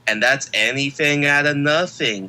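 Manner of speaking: big wrestling hype intro; hype announcer. Acted. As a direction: sell him like a champion.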